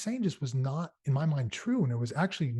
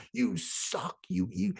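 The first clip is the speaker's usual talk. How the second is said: higher mock heckler shouting down a speaker; 6 semitones higher, much slower than usual. Heckler at a talk shouting down the speaker, higher mock jeer. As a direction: toss off a heckler's jeer, half-hearted. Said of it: "starts shouting me down".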